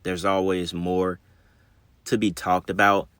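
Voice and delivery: slurred speech after the dentist; slurring. Real, not acted. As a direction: numb mouth slurring words. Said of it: "If I sound like I'm slurring, I just came from the dentist".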